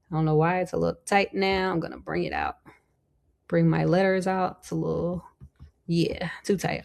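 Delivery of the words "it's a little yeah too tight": whispered to herself; a quick unvoiced aside about the spacing. Real, not acted. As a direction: breathe it out under your breath. Muttered aside while adjusting.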